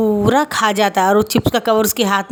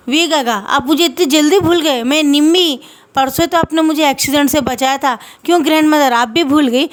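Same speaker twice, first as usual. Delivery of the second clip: put-on little girl voice; 5 semitones higher than usual. Little girl speaks to him.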